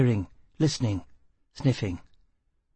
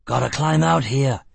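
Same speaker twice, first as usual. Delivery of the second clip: shouting; 3 dB louder than usual. Acted. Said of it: "he shouted".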